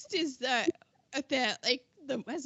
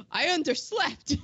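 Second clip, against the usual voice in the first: mock gasp, then the punchline; hammed-up little gasp of realization; imitated startled waking; 3 semitones higher than usual. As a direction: act out waking up startled, half laughing. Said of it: "he just goes".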